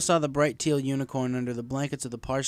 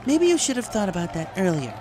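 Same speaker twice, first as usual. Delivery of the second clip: higher, flat and blunt; matter-of-fact; 8 semitones higher, 5 dB louder than usual. A narrator's reading. Celestia coolly tells Marty he should have known, matter-of-fact. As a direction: state it coolly, no sympathy. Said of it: "told him matter-of-factly".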